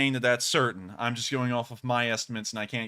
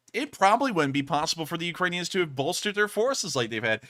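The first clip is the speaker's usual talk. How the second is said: sarcastic; 2 semitones higher than usual. Acted. Mock thanks to Russia for "aid.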